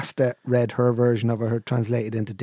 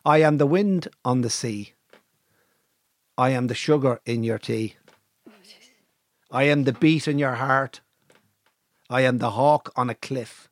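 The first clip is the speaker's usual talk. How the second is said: poem recitation. Acted. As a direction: declaim each line with pauses. Reciting his poem aloud.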